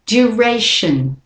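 "Duration" slow, stress on ray, weak shun; slow model word. Shown as a demonstration. Teacher invites learners to say it with her, slow. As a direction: model "Duration" slowly for copying. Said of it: "do the next one with me".

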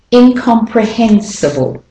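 "Incomprehensible" with weak "pre", "si", "ble" and strong "hen"; clear stress pattern. Shown as a demonstration. Teacher letting learners hear melody and rhythm, clearly stressed. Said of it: "you can hear the melody and the rhythm".

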